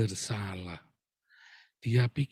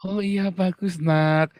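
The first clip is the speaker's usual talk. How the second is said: raised, drawn-out praise; mock approving parent; 3 semitones higher, slower than usual. Parent praising the child who cut up cards, mock approving. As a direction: play the indulgent parent. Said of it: "Apa yang harus Anda lakukan?".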